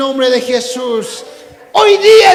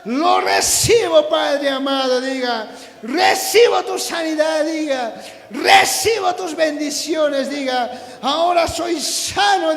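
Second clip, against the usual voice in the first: impassioned preacher leading call and repeat; ringing prayer declarations in short bursts; fervent declarations; 3 dB quieter than usual. Real, not acted. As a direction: proclaim each phrase for the congregation to echo. Leads declarations at full force.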